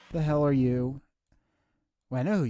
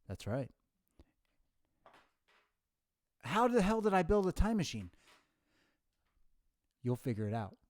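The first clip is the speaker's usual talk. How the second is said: professor voice. Acted. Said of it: "you sound like you're, uh, a professor".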